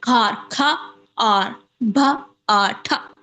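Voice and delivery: "खार, खा, आर, भा, आ, ठा" in separate syllables with pauses between; syllable-by-syllable demonstration. Shown as a demonstration. Teacher showing students what a syllable is, "खार, खा, आर, भा, आ, ठा" said piece by piece. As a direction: break "खार, खा, आर, भा, आ, ठा" into isolated sound chunks. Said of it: "syllable, what is syllable?".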